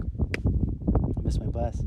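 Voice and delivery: slow, low, deflated murmur; dejected mumble. Retold or imitated. Teen watching his bus leave, slow deflated mumble. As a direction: sigh it out like a defeated kid.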